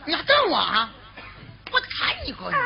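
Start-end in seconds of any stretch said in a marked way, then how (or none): 1.7-2.6 hammed-up shout, much higher; mock threat. Uncle jokingly shouts at the staring baby, mock threat. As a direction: pretend to scare the baby.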